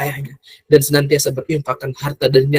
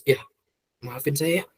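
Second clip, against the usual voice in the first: tearful apology; 4 semitones lower, 8 dB quieter than usual. Shown as a demonstration. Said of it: "Dan antum nangis".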